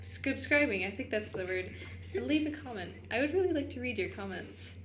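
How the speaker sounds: put-on old Hollywood announcer accent; crisp mid-century radio announcer; transatlantic accent. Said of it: "Maybe we'll put the transatlantic accent".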